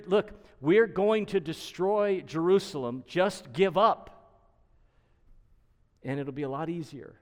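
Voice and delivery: lightly acted envoy's loud ultimatum; Assyrian envoy. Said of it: "this sustained argument from the Rav".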